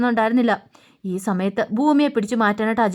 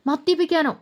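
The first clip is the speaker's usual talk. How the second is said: shocked disbelief; 7 semitones higher than usual. Acted. Daughter shocked at drinking claim.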